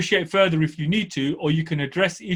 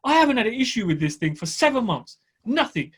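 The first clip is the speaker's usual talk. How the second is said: pleased disbelief; 5 semitones higher than usual. Retold or imitated. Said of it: "I think".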